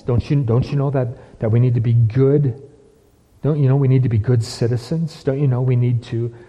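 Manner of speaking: a hint of whiny mock pleading on "don't you know"; lightly mock the timid churchgoers; mocking subdued people. Preacher mocking subdued people's pleading, a touch of whine. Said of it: "that's how subdued people talk".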